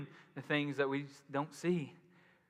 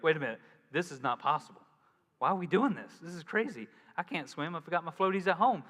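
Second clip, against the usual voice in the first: fast, louder, rising panic; mock panic; 2 semitones higher, 4 dB louder than usual. Preacher mocking panicked believer, fast and louder. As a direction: spiral into comic worry. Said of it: "to where we're like".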